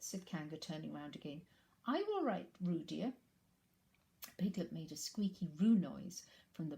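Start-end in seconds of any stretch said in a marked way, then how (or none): 1.9-3.1 Kanga's voice. Acted. Kanga asks Roo.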